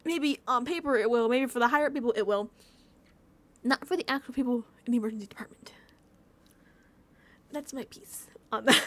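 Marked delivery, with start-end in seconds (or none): 3.6-8.8 whispered aside. Real, not acted. Ranting, drops to whisper.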